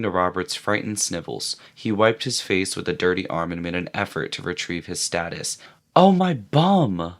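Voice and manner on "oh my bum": rueful. A narrator's reading. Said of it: "rubbed his rump ruefully".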